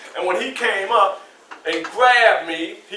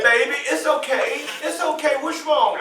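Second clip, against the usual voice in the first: mother comforting; 6 semitones higher than usual. Retold or imitated. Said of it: "And she said".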